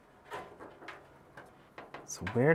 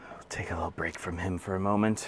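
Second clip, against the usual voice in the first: whispering. Real, not acted. Aside while wrestling stubborn part.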